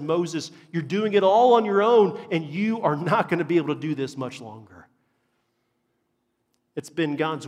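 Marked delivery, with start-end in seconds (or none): 0.0-4.9 Jethro's warning. Acted. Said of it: "Jethro looks at and says".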